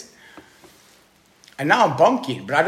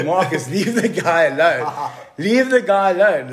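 raised-voice telling-off, building on the repeat; mock scolding, getting louder and higher; imitated scolding wife; 3 semitones higher, 5 dB louder than usual. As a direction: step in firmly on someone's behalf. Wife scolds Marcus in retelling.

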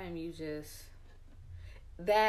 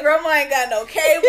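loud, high laughing mock whine; mock wailing kid; 9 semitones higher, 18 dB louder than usual. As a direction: ham up the crying kid. Johnny's wail voiced, laughing.

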